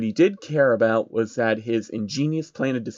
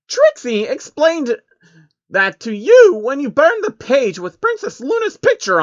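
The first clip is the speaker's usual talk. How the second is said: deadpan Trixie; 12 semitones higher, 5 dB louder than usual. A narrator's reading. Trixie answers Soros flatly in her high pony voice. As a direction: state it like the obvious. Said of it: "Trixie deadpanned".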